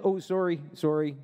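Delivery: put-on duck with a Canadian accent; easygoing Canadian duck, apologetic. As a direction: play it lightly Canadian. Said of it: "this duck was just Canadian".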